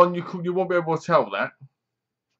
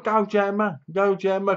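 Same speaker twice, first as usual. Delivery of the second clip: higher-pitched rooting for the heroine; urging cheer, pitched up; 6 semitones higher than usual. Acted. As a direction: egg her on in a raised pitch. Voices viewers cheering on heroine.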